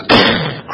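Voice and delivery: short voiceless crashing sound effect; imitated crash noise. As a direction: make the noise of a sudden crash. Imitates boy crashing after running.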